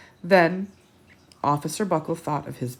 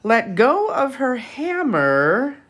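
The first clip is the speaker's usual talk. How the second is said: mild read scream; 8 semitones higher, 6 dB louder, slower than usual. Acted. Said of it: "who screamed".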